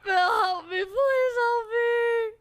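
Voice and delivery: shouting for help, voice cracking with desperation; calling for help. Acted. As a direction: yell to the passerby as if stranded. Calling out to rescuer Phil.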